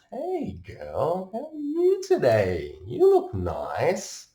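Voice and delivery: high, loud Aussie surfer charm; brash Aussie pickup. Retold or imitated. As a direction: saunter up and chat her up, Aussie style. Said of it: "Just walk right up".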